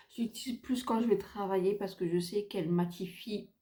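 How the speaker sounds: suppressing hiccups mid-sentence; hiccupping while talking. Real, not acted. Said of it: "j'ai le hoquet".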